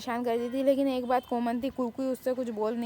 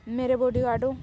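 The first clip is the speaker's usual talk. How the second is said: loud, mock-commanding address; bossy call; 5 dB louder than usual. Girl rallies her friends as her bodyguards, loud and bossy. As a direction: boss your little gang.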